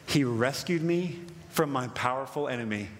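low, slow psalm reading with long pauses; a touch of solemn awe, read deliberately; hushed scripture reading. Acted. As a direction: let each phrase of the verse settle. Reads the psalm quietly.

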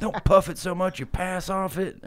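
high voice with a laugh in it; high, giggling stoner plea; high-pitched voice, laughing through it; Grimace translated. Retold or imitated. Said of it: "Which means, like".

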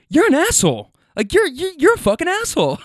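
high, loud indignant outburst that cracks into a laugh; angry passenger. Retold or imitated. Passenger laughed at by driver and wife, yelling high and loud.

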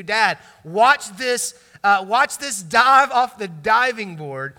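loud, drawn-out call to Dad; excited kid showing off. Retold or imitated. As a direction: imitate a kid proudly calling for an audience.

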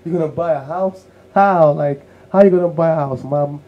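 high, disbelieving and rising to a loud how; hammed-up disbelief at a crazy plan; incredulous mom. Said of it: "My mom was like".

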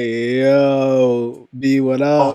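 loud yo, B, what up; street greeting. Retold or imitated. Exec opening the conference call, loud street greeting. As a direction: greet them like a homie. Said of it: "Start the call off like".

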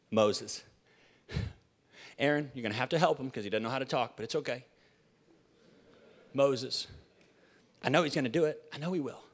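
quietly confident, as God picking his man; low, understated pondering; God musing quietly. Acted. Voices God choosing Moses.

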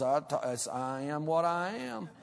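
slow, stretched mountain drawl; Keith Dale. Retold or imitated. Mountain man defending his speech to New Yorkers, slow drawl. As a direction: draw out every vowel in a mountain accent. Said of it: "You don't really talk like this".

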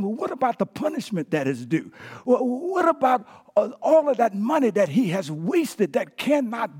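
lightly acted aggrieved son demanding justice; indignant protest. Older son protests the party to his father, mildly indignant. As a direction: press each question like an accusation. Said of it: "What the boy was really saying".

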